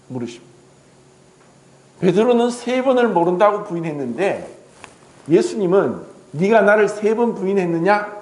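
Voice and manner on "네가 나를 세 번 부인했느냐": reproachful question. Acted. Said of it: "질책한 것이 아니라".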